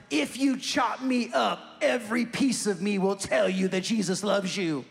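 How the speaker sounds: slow, half-shouted street preacher line; a hint of a fearless old street minister; David Wilkerson. Pastor quotes a street minister defying gang members, slow and half-shouted. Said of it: "He used to say to them".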